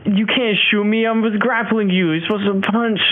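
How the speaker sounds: high, real excited objection; indignant protest. Real, not acted. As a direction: protest the rule in disbelief. Player protests the rules, laughing.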